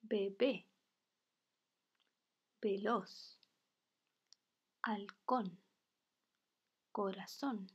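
isolated words, final syllable stressed as in be-BÉ, ve-LOZ, hal-CÓN; teacher's word list with long pauses and stressed endings, "corazón" as cora-ZÓN; stress on last syllables. Shown as a demonstration. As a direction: read "Bebé, veloz, halcón" word by word, leaning on each last syllable. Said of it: "se marca fuerte la voz en la última sílaba".

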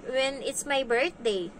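a hint of a kid's drawn-out plea; imitated child. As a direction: lightly mimic a child explaining a wish. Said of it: "Kasi sabi niya".

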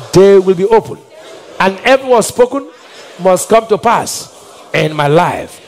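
slow, emphatic prayer with long pauses; prayer declaration. Acted. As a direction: declare each phrase as a decree. Leads congregation in prayer declaration.

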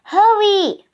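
high, loud urgent call; urgent high holler. A narrator's reading. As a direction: call him to come quickly. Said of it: "called Annie".

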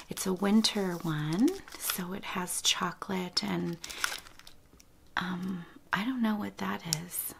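breathy hush, as if close to the mic; ASMR whisper. Real, not acted. Whispering to viewers about baby gifts, ASMR whisper.

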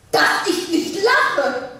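Dass ich nicht lache said slowly through a laugh; laughing scoff. Acted. Wife laughs off the divorce idea, slowly and scornfully.

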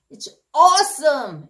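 slow, high, loud cheer; enthusiastic praise. Shown as a demonstration. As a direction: stretch it out as big praise. Praise set against its opposite.

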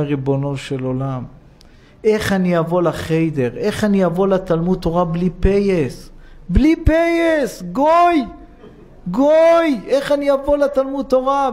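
put-on a boy crying to God, pleading with tears; crying child's plea. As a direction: wail it like a weeping boy. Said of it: "את הילד בוכה ואומר".

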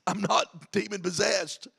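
light chuckle into the line; laughing a little. Acted. Jesus answering his accusers, laughing a little. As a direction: play it as mildly amused disbelief. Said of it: "Jesus almost laughs a little bit".

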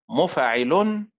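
a third way of stressing مفاعل; third stress pattern. Shown as a demonstration. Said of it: "وتنطق بأربع طرق، هكذا".

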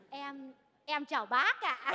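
slow, halting shy greeting; nervous. Acted. Woman greeting her longtime idol, nervous. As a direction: stammer a bashful hello. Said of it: "tôi run quá cậu ơi".

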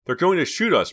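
high, loud burst of alarm; alarmed, pitched well up; panicked thought. A narrator's reading. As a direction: think it aloud in mild panic. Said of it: "Pam thought".

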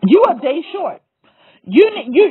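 real emotion breaking through, pitch up. Real, not acted. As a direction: push the words out as the voice cracks. Voice cracking with emotion.

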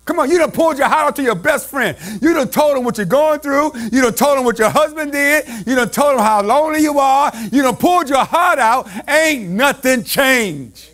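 fervent preacher's cadence; preaching at full force. Acted. Preacher pressing the congregation at full force. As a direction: drive it home like a preacher.

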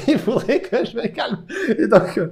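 real laugh through the words; laughing at himself. Real, not acted. Laughing at his own fast talking, to his viewers. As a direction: laughs while telling himself to calm down. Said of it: "je parle trop vite".

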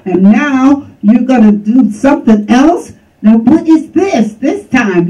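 imitating an exasperated husband, quick and rising; upset husband. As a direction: rattle off his complaint, pitch climbing. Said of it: "freaking out 'cause he's like".

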